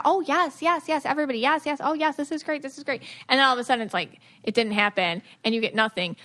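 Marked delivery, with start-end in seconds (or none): 0.0-3.0 mock thrilled kid. Child thrilled by promise.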